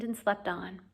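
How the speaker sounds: soft unvoiced close; whispering. A narrator's reading. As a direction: breathe it out quietly. Narrator whispers sleeping teacher.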